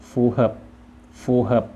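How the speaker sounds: ฟู่เหิบ as Vietnamese, stopped at the end; Vietnamese pronunciation. Shown as a demonstration. Teacher models the word for suitable, Vietnamese pronunciation of ฟู่เหิบ. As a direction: say ฟู่เหิบ in Vietnamese with a closed final syllable. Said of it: "ภาษาเวียดว่า".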